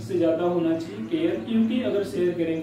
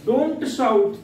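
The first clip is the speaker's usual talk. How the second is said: "Don't shout" said louder, as a real order; firm loud command; 4 semitones higher, 5 dB louder than usual. Shown as a demonstration. Teacher acts out telling a noisy person to stop. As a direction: bark "Don't shout" at someone making noise. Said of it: "यहाँ भी कहा जाएगा".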